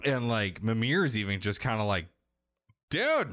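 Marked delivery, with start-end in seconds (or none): 2.9-3.3 very high, drawn-out "dude"; incredulous. Retold or imitated. Mimir stunned by the boy's rudeness.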